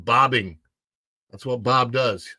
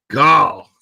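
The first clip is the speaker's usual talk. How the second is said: loud exclamation; 11 dB louder than usual. Real, not acted. Exclaiming at time passing.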